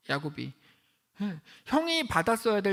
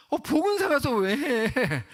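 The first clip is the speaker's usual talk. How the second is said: higher, louder, slow disbelieving question; incredulous; 6 semitones higher, 5 dB louder, slower than usual. Real, not acted. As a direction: ask it in stunned disbelief.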